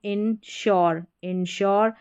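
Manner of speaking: इंश्योर said as "in-shor"; demonstrated pronunciation. Shown as a demonstration. Teacher modelling इंश्योर for learners, careful demonstration. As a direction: say इंश्योर clearly, ending in "shor". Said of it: "करके इसको pronounce करेंगे".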